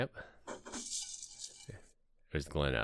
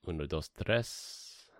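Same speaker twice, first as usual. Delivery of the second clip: slow counting; 5 dB quieter, slower than usual. Shown as a demonstration. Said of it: "Vanished without a trace".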